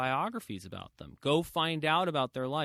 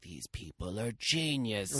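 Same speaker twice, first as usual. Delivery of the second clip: slow, drawn-out mock reverence; mock awe; slower than usual. Speaker imitating someone dazzled by the Zuckerberg clan, mock awe. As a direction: draw it out in exaggerated awe. Mocks awe at supposed geniuses.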